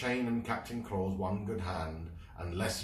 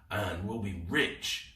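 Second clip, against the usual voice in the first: sniggering. Acted. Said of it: "sniggered Short John Gilroy".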